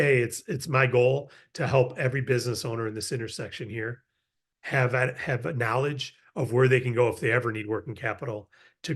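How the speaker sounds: easy, low-key and friendly; relaxed pitch. Shown as a demonstration. Introducing yourself to a business owner, relaxed and friendly. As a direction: tone it down and just chat. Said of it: "you don't have to say it with this energy".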